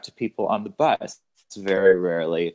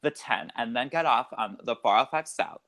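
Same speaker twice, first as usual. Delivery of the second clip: lightly put-on California accent; 2 semitones higher than usual. Shown as a demonstration. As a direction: give directions like a Californian. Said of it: "that was my California coming out".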